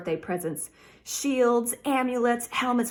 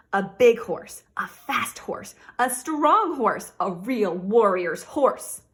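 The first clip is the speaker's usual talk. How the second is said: eager wish list; 5 dB louder, slower than usual. Acted. Child's list of wished gifts.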